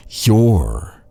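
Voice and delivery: slow, unvoiced threat; menacing whisper. Knight leans in to accuse the prisoner, slow menacing whisper. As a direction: hiss it slowly like a secret accusation.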